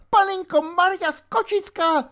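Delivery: high, loud squawking invocation; cried out. A narrator's reading. Housekeeper calls on the Virgin in alarm, shrieking. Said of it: "vykřikla pejzlerka".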